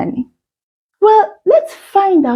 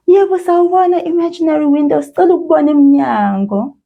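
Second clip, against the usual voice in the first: quick eager greeting; 5 semitones higher, much faster than usual. Acted. Greeting the imaginary window.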